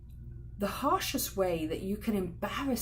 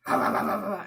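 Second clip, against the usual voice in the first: loud mock barking of orders; 6 dB louder, faster than usual. Shown as a demonstration. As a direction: bark it like a bossy parent. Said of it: "it's not barking orders".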